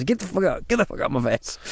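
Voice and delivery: mock British street retort, not shouted; lightly voiced London bloke telling someone off; British bloke imitation. Retelling a British bloke's response to a YouTuber, mild mock aggression. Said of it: "it was a very British kind of response".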